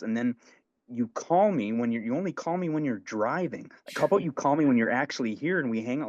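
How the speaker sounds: whiny high take on his gripe; imitating complaining friend.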